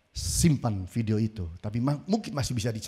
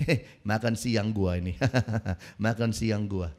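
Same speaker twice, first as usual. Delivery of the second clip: smug lion; 4 semitones lower than usual. Retold or imitated. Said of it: "Seolah-olah bilang gini".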